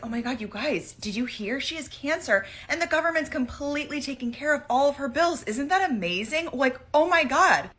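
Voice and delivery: high gushing excitement; naive excitement. Retold or imitated. Telling friends about Swedish health care, gushing high. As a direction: gush like you just heard amazing news. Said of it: "and I say".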